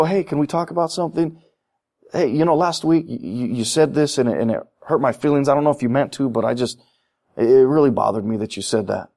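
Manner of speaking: calm and sincere, easing into it. Retold or imitated. Churchgoer gently telling a friend they were hurt, softly sincere. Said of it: "you just go".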